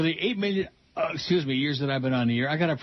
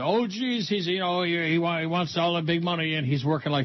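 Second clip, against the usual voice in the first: complaining coworkers; 4 semitones higher than usual. Retold or imitated. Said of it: "I know that".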